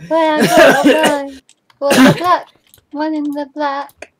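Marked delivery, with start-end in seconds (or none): 0.1-1.4 loud, hurried; panicking. Real, not acted. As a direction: flee in panic. Fleeing danger.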